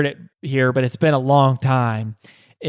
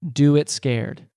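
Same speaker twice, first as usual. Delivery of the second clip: a slow, tender reminder; remembered gentle voice; slower than usual. Retold or imitated. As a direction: let the phrase linger like a voice in her ear. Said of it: "the firefighter's voice still in her ear".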